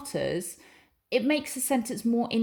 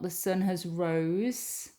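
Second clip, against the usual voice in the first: wrong form read slowly; much slower than usual. Shown as a demonstration. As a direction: drag out the wrong version.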